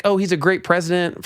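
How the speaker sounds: scoffing sing-song; mocking a party line; sarcastic mock praise. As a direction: sneer at the empty praise. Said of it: "forget these, like".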